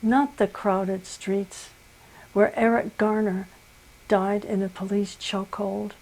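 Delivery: measured poem reading with long pauses between phrases; poetry reading. Acted. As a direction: read it solemnly, line by line. Reads next poem aloud.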